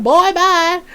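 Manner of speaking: high, loud mock kiss-off; hammed-up scornful goodbye; sassy dismissal. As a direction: dismiss him with playful sass.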